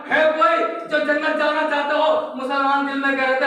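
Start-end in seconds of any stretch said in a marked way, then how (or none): 0.1-2.1 higher-pitched challenge; higher challenge to the Muslims; taunting challenge. Retold or imitated. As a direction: call out the dare again, mocking them. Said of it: "ललकार रहा है".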